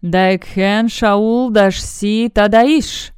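a friendly alien tongue, slow and drawn out; kind and courteous Gorgon speech. Acted. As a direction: speak the snake language warmly and politely. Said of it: "прозвучала доброжелательно и любезно". (доброжелательно и любезно, медленно)

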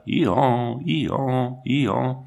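a touch of a plaintive donkey "Ihan", lightly voiced; mild tearful hee-haw; weeping donkey bray. A narrator's reading. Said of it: "avait l'air de pleurer et aussi d'appeler au secours".

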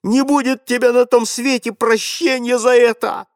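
put-on boy keeps raging at grandfather through gritted teeth. A narrator's reading. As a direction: spit it out between clenched teeth. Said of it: "продолжая сквозь зубы".

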